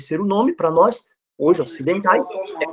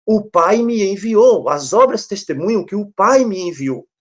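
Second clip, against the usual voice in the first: "O Pai me enviou" raised, slow and deliberate; slow down to drive home "O Pai me enviou"; emphatic scripture quote; 3 semitones higher than usual. Retold or imitated. Preacher quoting Jesus on who sent him, "O Pai me enviou" said with slow emphasis. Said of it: "ele mais uma vez enfatiza isso".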